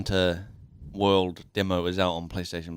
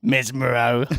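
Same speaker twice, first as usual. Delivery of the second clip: lightly squeaky showman greeting; sing-song stage magician intro; bright squeaky sing-song welcome; 3 semitones higher, 5 dB louder, slower than usual. Acted. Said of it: "This is my character voice".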